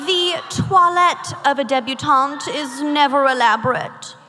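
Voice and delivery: prim mid-Atlantic etiquette reading; affected mid-Atlantic recitation; mid-Atlantic accent. Acted. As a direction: read it like a quote in a put-on mid-Atlantic accent. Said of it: "I don't know what accent this is".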